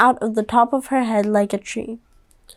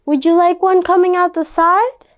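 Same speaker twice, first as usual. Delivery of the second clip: mom voice; 7 semitones higher than usual. Acted. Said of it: "the mom said".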